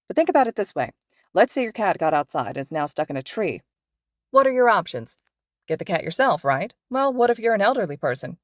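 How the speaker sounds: lively pro hero explaining to students; cheerful teacher lecturing his two students on patrol; upbeat hero teacher. Acted. Mike Sensei explaining.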